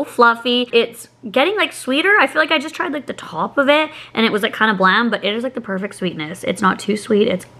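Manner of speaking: spoon at the lips; taking a bite mid-sentence; eating while talking. Real, not acted. Seen 1: Holds cake-laden spoon at lips, spoon enters mouth at end.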